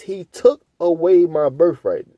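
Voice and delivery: "He took away my birthright" read slowly, each word set apart for the listeners; preacher slowing down to make the congregation hear each word of the verse; slow, pointed reading. Shown as a demonstration. Slowly weighing "away" and "birthright" for the congregation. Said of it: "listen, listen to his wordage".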